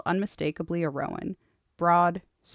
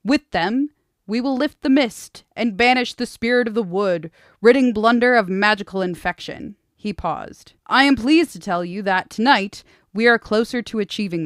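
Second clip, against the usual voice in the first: louder; 4 semitones higher, 9 dB louder than usual. Acted. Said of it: "his voice louder".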